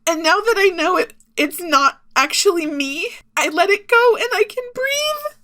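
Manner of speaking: real tears pushing through the words; crying. Real, not acted. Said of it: "I'm crying while I say this".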